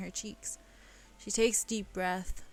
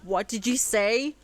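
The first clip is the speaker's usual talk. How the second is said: higher, louder giggly aside; laughing reminiscence; 6 semitones higher, 7 dB louder than usual. Real, not acted. Reader laughing while recalling school days, giggling. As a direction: crack up at the memory.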